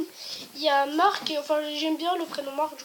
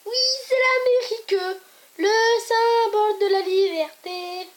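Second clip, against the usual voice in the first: grand patriotic proclamation; 5 semitones higher, 5 dB louder than usual. Acted. Knock-knock punchline, grand proclamation.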